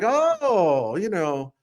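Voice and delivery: mock alarm, lightly hammed up; sarcastic. Rivals pretending to fear Mizzou, sarcastic. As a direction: play at being scared of the other team. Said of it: "I'm being sarcastic, of course".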